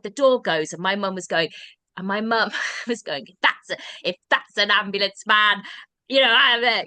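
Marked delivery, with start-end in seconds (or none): 3.3-6.8 mum's confused protest. Retold or imitated. Confused mum hears ambulance man.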